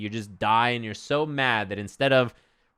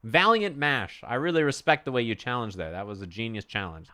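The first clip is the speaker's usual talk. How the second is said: impersonated gracious player. Retold or imitated. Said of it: "Super Noon was like".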